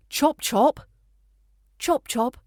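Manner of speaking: a crisp, cheery hurry-up; cheerful command. Shown as a demonstration. Demonstrating a classic British hurry-up, cheerful command. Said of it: "the classic cheerful command".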